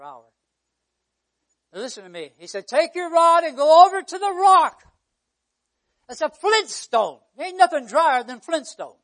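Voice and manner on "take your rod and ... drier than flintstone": loud, emphatic pulpit proclamation; preaching. Real, not acted. Preacher relaying God's command to Moses, preaching forcefully.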